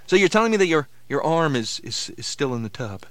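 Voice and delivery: high loud disbelief falling off; can't believe the arm is in the tub; shocked question; incredulous. Acted.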